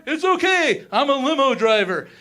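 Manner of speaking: light Ace Ventura line delivery; Ace Ventura impression. Comic quoting Ace Ventura to the crowd, light impression. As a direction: toss it off like the pet detective. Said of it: "All right, Jim Carrey, Ace Ventura".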